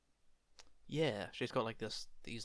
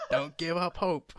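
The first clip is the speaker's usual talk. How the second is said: sphinx; 6 semitones higher, 8 dB louder than usual. Acted. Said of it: "do your best Sphinx voice".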